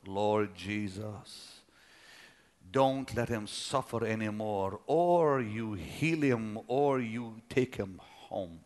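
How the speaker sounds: a son's hushed, slow prayer for his dying father. Retold or imitated. Praying at dying father's bedside.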